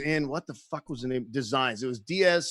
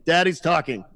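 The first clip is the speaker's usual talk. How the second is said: mock yell; 4 dB louder than usual. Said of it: "yelling at his kids".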